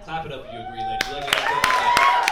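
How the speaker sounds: high, loud call to the ladies; hype shout. Real, not acted. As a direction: pump up the crowd, high and loud. Hyping ladies to clap.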